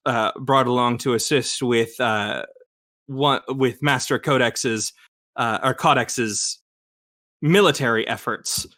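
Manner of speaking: put-on halting, imperfect German accent; German Shepherd's German accent. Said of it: "trying to speak as this character".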